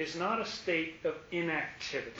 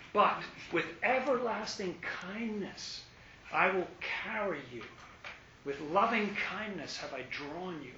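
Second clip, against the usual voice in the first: the Lord's tender tone. Acted. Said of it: "you hear that in that tone".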